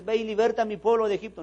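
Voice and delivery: high, loud divine command; God commanding. Retold or imitated. God ordering Moses to free his people, commanding. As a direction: proclaim it as God giving orders.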